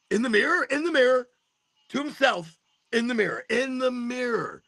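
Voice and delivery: high, scandalized mimicry; mocking judgmental onlooker. Someone judging his mirror talk, mock-scandalized. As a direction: mimic a gossip, stretching the final repeat. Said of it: "someone's gonna judge me? He talks to himself".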